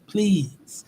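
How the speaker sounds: a hushed inside-voice please; whispered please. Shown as a demonstration. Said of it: "use your inside voices".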